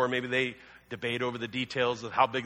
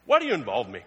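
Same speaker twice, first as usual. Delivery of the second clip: chewing Brad Pitt; 3 semitones lower, 4 dB louder, faster than usual. Retold or imitated. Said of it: "think of him like eating a piece of bread... Like Brad Pitt".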